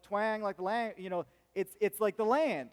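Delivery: lightly put-on Southern twang. Shown as a demonstration. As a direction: stretch the vowels into a Southern twang. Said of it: "they got the Southern little twang".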